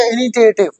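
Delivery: इनिशिएटिव said as "ini-ti-ative", with a hard T; hard-T middle in इनिशिएटिव; common mispronunciation. Retold or imitated. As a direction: put T in place of "shi" in इनिशिएटिव. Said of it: "लोग कई बार मैंने बोलते हुए देखा".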